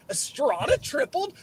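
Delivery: high, laughing shout of disbelief; stunned disbelief. Retold or imitated. Checking the app and seeing the runs, laughing shout. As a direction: yelp it out half laughing, can't believe the score.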